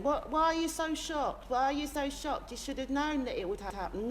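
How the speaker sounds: high, whiny mimicry of smug know-it-alls; high mocking whine of a conspiracy theorist. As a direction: sneer it up high like a smug online crank. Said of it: "conspiracy arseholes out there saying".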